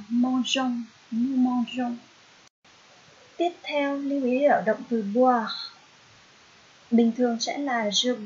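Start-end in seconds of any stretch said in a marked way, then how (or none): 0.1-2.0 mangeons said the French way, nasal on the last syllable; French pronunciation demo. Shown as a demonstration. Teacher reading to her students, careful French pronunciation. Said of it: "Lúc đó phát âm sẽ là".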